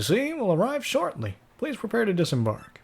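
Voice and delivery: high, lilting ship's captain. Acted.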